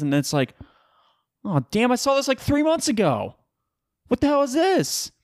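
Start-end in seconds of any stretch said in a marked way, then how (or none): 1.5-5.1 high-pitched, hammed-up letdown; mock exasperation. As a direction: whine in put-on outrage, pitched way up. Acts out his letdown at old news.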